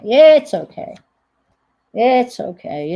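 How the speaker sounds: "It's okay" called out loud and high; loud reassurance. Real, not acted. After cutting paper, she insists loudly it's fine.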